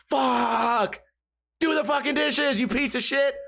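mock fed-up yell, pitched high; drawn-out curse, then high exasperated rant; mock outburst. Imagined blow-up at roommates over dishes, mock angry.

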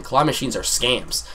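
slow line landing on "scams"; stress on scams. Real, not acted. Storyteller repeating a warning to viewers, emphasis on "scams". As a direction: draw out the line, weight on "scams". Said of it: "I emphasize the word scam here".

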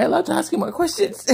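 giggling while teasing; amused, laughing question. Real, not acted.

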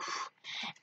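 soft exhale, imitating him; imitated puff of air; breathy sigh. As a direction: let out a long voiceless breath. Retelling his reaction to the TV.

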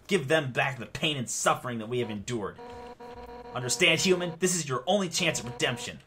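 a threatening speech in a makeshift warrior voice; Undyne. Acted. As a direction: declare it like a menacing foe, pitch slightly up. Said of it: "This is the best I'm gonna do".

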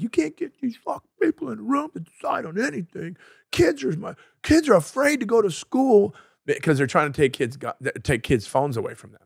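high, fast angry rant impression; ranting guy. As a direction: mimic an outraged guy venting. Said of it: "this guy was like".

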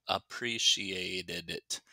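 "appreciated it" slowed, ending run together as "did it"; slow model of connected "appreciated it"; linked sounds. Shown as a demonstration. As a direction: stretch "appreciated it" but link the end. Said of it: "it's going to sound like".

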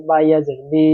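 বি stretched to one alif length; drawn out vowel. Shown as a demonstration. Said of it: "একটু টানতে হবে". (বি-র ঈ স্বর এক আলিফ টেনে)

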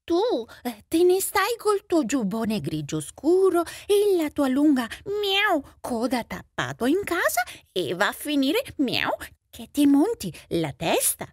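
huffy cat voice broken by meows; resentful cat. Acted. Cat tells off stay-at-home mouse, resentful. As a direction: scold with meows between phrases, dragging out the end. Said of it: "disse il gatto risentito".

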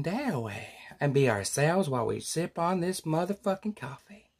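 a hushed, sugary welcome that keeps slipping into swearing; fake-nice neighbor.

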